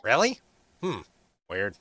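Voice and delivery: a hint of the chatty dwarf voice; lightly voiced dwarf. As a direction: keep the dwarf's eager tone, lightly. Hori voiced again.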